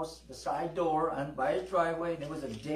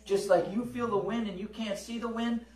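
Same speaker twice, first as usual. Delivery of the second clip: preaching testimony; 3 semitones higher than usual. Retold or imitated. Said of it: "And I said".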